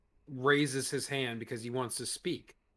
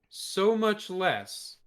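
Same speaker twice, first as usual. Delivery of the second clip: "so much less" drawn out very slowly; stress on "so much less"; 7 semitones higher, 5 dB louder, much slower than usual. Real, not acted. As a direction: lean hard on "so much less". Stresses how little he likes them.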